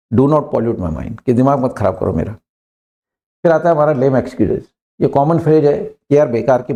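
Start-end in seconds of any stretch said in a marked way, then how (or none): 0.1-1.2 each word spaced out slowly; slow model sentence. Shown as a demonstration. Teacher to students, modelling the phrase slowly. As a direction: say it slowly so students can repeat. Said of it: "go from here".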